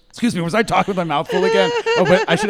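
put-on fumbling through an Australian accent; bad Australian accent. Clumsy Australian accent at the Thanksgiving table. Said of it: "I have to warm up to an Australian accent".

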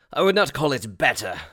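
dry elf king. Acted. Fingolfin voiced in dialogue.

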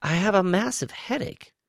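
high lilting reptilian voice; a sly alien lizard, very high; reptile creature voice. Acted. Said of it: "in a lilting tone".

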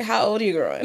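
giggling through the question; laughing while quoting. Retold or imitated. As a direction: quote it mid-laugh. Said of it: "She was like".

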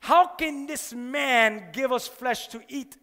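slow, mildly indignant question; arguing crowd. Acted. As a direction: challenge it in disbelief, weighing each word. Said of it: "the people began arguing".

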